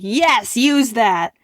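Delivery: loud, emphatic approval; eager yes. Retold or imitated. Urging the seller to use it: loud eager approval. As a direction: cheer him on to use it.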